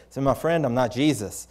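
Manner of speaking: level voice, falling at the end; gentle correction. Retold or imitated. Preacher setting a weeping man straight as a friend, gentle. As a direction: explain it kindly and evenly.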